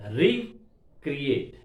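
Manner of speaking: "recreate" broken up with pauses between syllables; split into syllables. Shown as a demonstration. Lecturer counting syllables for students, "recreate" split apart. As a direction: say "recreate" slowly, piece by piece. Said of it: "How many syllables are there".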